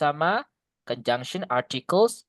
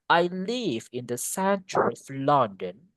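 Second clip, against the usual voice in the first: British-like; much slower than usual. Shown as a demonstration. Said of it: "kayak mirip-mirip ke British gitu".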